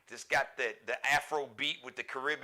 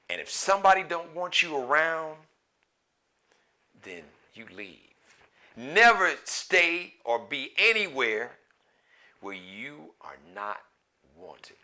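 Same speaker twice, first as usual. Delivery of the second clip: quoted grandmother's advice; 6 dB louder than usual. Retold or imitated. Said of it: "she would say".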